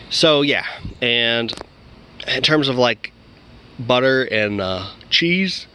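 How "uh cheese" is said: word stretched into a yawn. Real, not acted. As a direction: say it as a yawn starts. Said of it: "I'm yawning".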